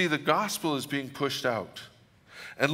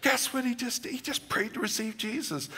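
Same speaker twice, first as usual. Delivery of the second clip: much higher, bright eager announcement; excited Pentecostal; 11 semitones higher than usual. Retold or imitated. Pentecostal friend telling the pastor the good news, excited and high. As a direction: play the proud friend breaking the news. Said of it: "this Pentecostal goes".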